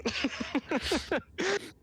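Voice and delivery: squeaky high-pitched laugh; high cartoon giggle. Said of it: "mine will sound like the".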